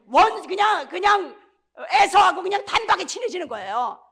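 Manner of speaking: loud, ringing preacher's shout; preaching shout. Real, not acted. Preacher shouting to the congregation, loud and ringing. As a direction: shout the good news out to the church.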